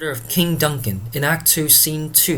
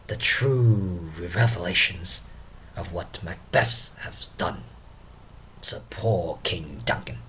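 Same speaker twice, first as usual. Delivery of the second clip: lightly acted tipsy musing, sinking lower and softer; Drunken Porter; 4 semitones lower, 4 dB quieter than usual. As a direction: trail into hushed, halting reflection. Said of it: "let us invite Drunken Porter himself".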